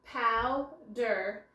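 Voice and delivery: powder stretched slowly, pow and der apart; drawn out by syllable. Shown as a demonstration. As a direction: draw out powder to show the syllables. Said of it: "here we see a special sound".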